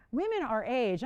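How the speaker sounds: a touch of offended disbelief on women our age; lightly offended quoting of women our age; indignant repeat. Retold or imitated. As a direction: echo the troll's words back, mildly insulted. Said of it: "And I'm like".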